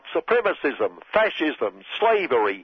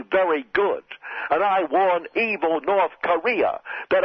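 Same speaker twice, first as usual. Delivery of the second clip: a hint of Trump threatening nations; mock Trump threat; 3 semitones higher than usual. Satirist voicing Donald Trump.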